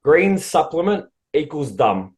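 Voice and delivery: slow, deliberate readout; reading out loud. Real, not acted. Host reading out wife's written verdict, slow and deliberate. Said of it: "I'm gonna read it out loud".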